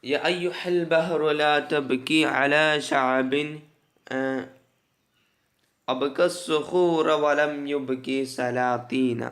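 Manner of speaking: slow, measured poem reading; verse recitation. Acted. Teacher reading an Arabic poem to students, slow recitation. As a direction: recite the line slowly, stretching long vowels.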